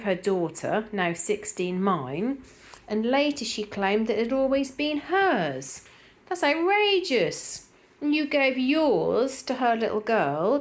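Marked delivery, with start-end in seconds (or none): 6.3-10.6 high, slow, indignant gasp of disbelief; drawn-out shocked outrage; outraged disbelief. Real, not acted. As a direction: sound scandalised on a friend's behalf. Indignant at a commenter's story.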